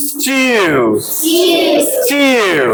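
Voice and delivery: স্টিউ with a y glide and long "oo"; correct pronunciation. Shown as a demonstration. Teacher models the first syllable, correct pronunciation. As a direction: draw out স্টিউ as "styoo", falling. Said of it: "এই সাউন্ডে ইয়ো and উ".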